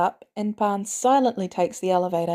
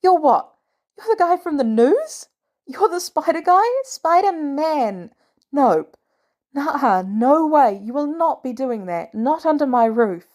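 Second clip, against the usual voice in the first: furious aunt yelling; 7 semitones higher, 4 dB louder than usual. A narrator's reading. May yelling at Spider-Man nephew.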